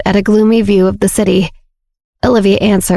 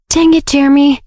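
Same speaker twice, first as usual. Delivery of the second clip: mild self-scolding, higher pitch; inner shout; 7 semitones higher than usual. A narrator's reading. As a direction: scold yourself in your head, exasperated. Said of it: "he mentally shouted at himself".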